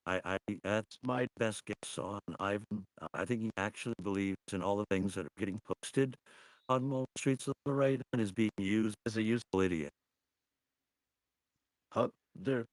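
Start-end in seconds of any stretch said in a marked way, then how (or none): 3.0-9.9 crackly, breaking-up voice. Real, not acted. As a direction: voice crackling over a bad line. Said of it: "It is a little crackly".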